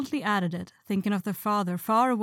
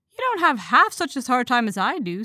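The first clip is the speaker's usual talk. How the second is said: aggrieved; 5 semitones higher, 7 dB louder than usual. A narrator's reading. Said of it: "said Jo".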